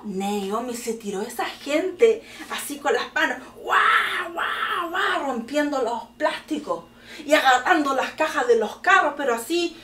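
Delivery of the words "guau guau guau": wordless "wah" bursts, imitating a mob; mock savage tearing noises; repeated mock attack cries; imitated frenzy roars. Imitates crowd tearing at plastic.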